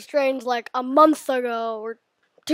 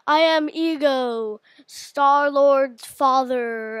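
Ego voice; 6 dB louder, slower than usual. Pretend. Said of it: "imitate some Marvel villains' voices".

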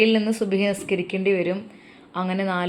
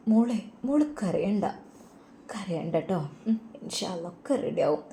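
softer, soothing mother's voice; comforting; 6 dB quieter than usual. Acted. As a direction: hush her tears tenderly. Mother comforting crying girl. (ആശ്വസിപ്പിക്കുന്ന ഉമ്മയുടെ സ്വരം)

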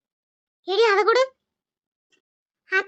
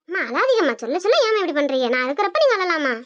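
consoling son; 2 semitones lower than usual. Acted. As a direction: reassure your mother. Son soothing mother.

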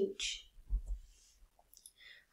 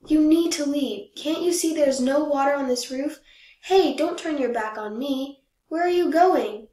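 loud, higher yell at Mother Goose; 3 semitones higher, 6 dB louder than usual. Acted. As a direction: shout her away from the roof, building at the end. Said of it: "I yelled".

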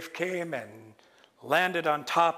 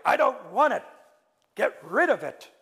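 higher, louder desperate demand; panicked plea; 6 semitones higher, 5 dB louder than usual. Acted. Cake to Raven, panicked plea. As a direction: beg him to take it away.

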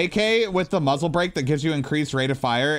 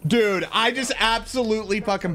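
excited; 9 semitones higher than usual. Real, not acted. Celebrating after the match.

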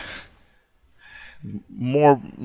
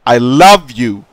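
"I love you" slow and much louder, stretched "love"; drawn out loud; 10 dB louder, much slower than usual. Real, not acted. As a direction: drag out "I love you" loudly. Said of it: "What I meant to say was that".

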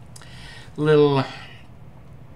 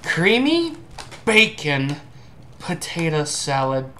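excited announcing; 2 semitones higher, slower than usual. Real, not acted. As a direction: announce the flavor like a reveal. Reading the chip flavor name.

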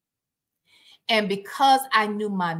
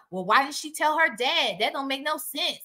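mocking quote; 3 semitones higher than usual. Host quoting doubters about the daughter's silence, mocking. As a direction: mimic a naysayer's dismissive question. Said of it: "this bullshit about".

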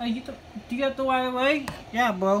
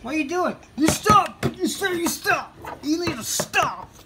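angry demand; 5 semitones higher than usual. Real, not acted. Heated traffic argument.

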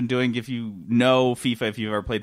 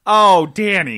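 laughing; 4 semitones higher, 7 dB louder, slower than usual. Real, not acted. Laughing at quarterback joke.

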